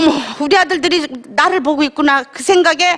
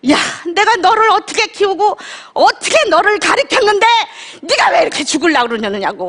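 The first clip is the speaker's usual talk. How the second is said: higher, pleading scold in a mother's voice; 5 semitones higher than usual. Retold or imitated. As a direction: mimic mother's tearful rebuke. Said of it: "엄마는 저한테 뭐라 그러셨는지 아세요?". (꾸짖는 어머니 흉내, 높은 목소리로)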